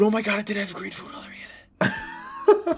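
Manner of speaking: high, fast, laughing through it; can't believe it, cracking up; laughing disbelief. Real, not acted. To friends, remembering the green dye, laughing disbelief. Laughing realization about the drink.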